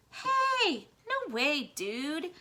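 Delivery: high, loud cheery reassurance; assuring. A narrator's reading. Ragweed reassuring Blinker, loud and high. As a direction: brush off the worry with a bright shout. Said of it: "Ragweed assured him".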